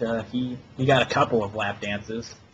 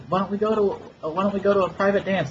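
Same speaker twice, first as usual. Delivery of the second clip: higher, sing-song come-on; mock flirty stripper; 8 semitones higher than usual. Imitating the stripper inviting him to play, flirty and higher. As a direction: tease it like a bored stripper.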